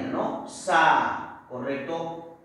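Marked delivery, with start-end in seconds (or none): 0.5-1.4 "Sa" held alone as a separate syllable. Shown as a demonstration. Teacher separating zanahoria for students, syllable by syllable. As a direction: isolate and lengthen "Sa". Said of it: "Se va a separar de la siguiente manera".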